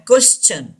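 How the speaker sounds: "क्वेश्चन" said as kwes-chun; a clear ch in the middle of "क्वेश्चन". Shown as a demonstration. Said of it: "च का sound देता है". ("क्वेश्चन" में टी का "च" sound)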